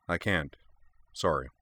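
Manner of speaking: a touch of flat refusal; mild deadpan refusal. Acted. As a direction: state it with no give. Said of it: "said flatly".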